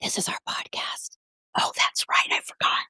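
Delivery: soft secretive whisper. Real, not acted. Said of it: "why are we whispering?".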